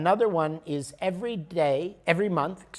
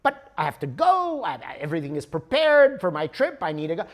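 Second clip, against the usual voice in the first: louder, urgent begging; pleading traveler; 2 semitones higher, 5 dB louder, faster than usual. Retold or imitated. Traveler begging the clerk for a ticket, louder and urgent. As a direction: insist you must go.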